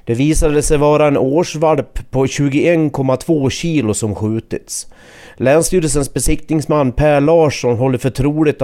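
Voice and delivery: measured radio news read with falling sentence endings; news report narration. A narrator's reading.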